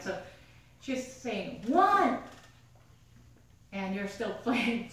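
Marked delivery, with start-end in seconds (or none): 1.7-2.2 higher, louder count of one; counting shout. Retold or imitated. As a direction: call out the count sternly. Mom counting angrily.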